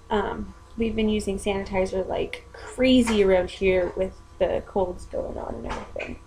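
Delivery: whispered aside; whispering. Real, not acted. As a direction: drop to a whisper. Unvoiced aside.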